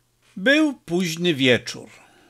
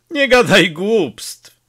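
slow, mocking and louder; 5 semitones higher, 6 dB louder, slower than usual. A narrator's reading. Peppone mocking his comrade, scornful and slow. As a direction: scoff at the nonsense. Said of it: "Peppone zaśmiał się drwiąco".

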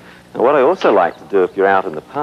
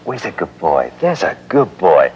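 calm praise. Shown as a demonstration. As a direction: reassure the dog gently. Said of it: "So this is good".

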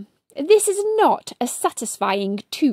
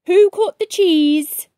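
accusing call; 3 semitones higher, 6 dB louder than usual. Acted. Someone accuses the crowd.

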